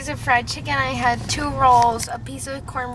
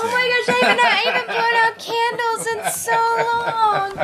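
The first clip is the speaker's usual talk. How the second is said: pleasantly surprised; 8 semitones higher, 3 dB louder than usual. Real, not acted. Sees birthday cake.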